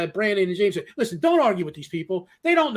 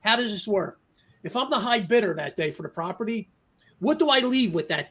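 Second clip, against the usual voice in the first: Columbo act; 3 dB quieter than usual. Retold or imitated. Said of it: "I'm just gonna do a Columbo here".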